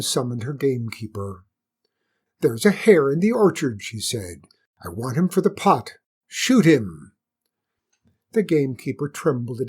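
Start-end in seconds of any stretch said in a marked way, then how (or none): 2.4-7.1 cold command. Acted. Queen orders gamekeeper.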